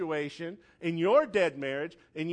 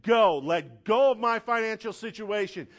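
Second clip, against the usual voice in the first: loud commanding release; shouted rebuke; 3 semitones higher, 4 dB louder than usual. Pretend. Preacher voicing the believer's prayer against troubles, shouted. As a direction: order it away, loud and sure. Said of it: "Look at that marriage and say".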